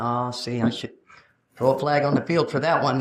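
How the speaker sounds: judge the stranger under your breath; smug referee. Retold or imitated. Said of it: "You're like".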